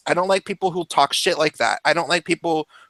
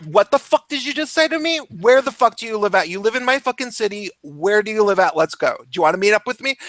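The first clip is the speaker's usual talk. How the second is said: retold heated challenge; 4 semitones higher, faster than usual. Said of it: "and then I'm like".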